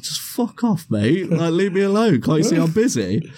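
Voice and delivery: lightly voiced drunk mate brushing off; mock drunk lad. Drunk friend telling the bouncer off, lightly mocked.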